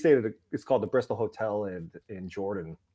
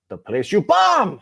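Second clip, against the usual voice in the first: deadpan punchline voice; 10 semitones higher, 8 dB louder, slower than usual. Retold or imitated. Punchline voicing the Vietnamese woman.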